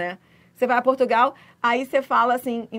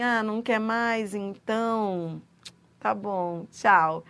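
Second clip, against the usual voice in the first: curt dismissive waiter; 2 semitones lower, 4 dB quieter, much slower than usual. Retold or imitated. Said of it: "Aí ele vira e fala assim".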